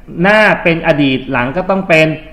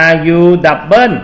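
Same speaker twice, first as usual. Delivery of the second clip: slow, letter by letter, louder; spelling out letters; 6 dB louder, much slower than usual. Shown as a demonstration. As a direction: spell it out for the class. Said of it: "ต้องมีสะกดยังไงครับ". (สะกดทีละตัวช้าๆ)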